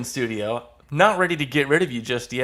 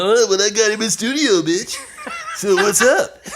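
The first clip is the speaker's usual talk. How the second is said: louder, higher gloating taunt; cocky self-imitation; 8 semitones higher, 4 dB louder than usual. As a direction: gloat like a winner, laughing. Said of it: "you did yourself perfectly there".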